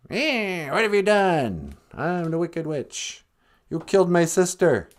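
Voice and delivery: high-pitched accusing witch voice; screech-edged mock witch, pitched well up; wicked witch. Wicked witch confronting Dorothy over her sister, high witch voice.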